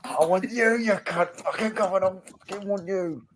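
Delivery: hammed-up Australian manager threatening the fans; Australian impression. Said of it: "He's Australian".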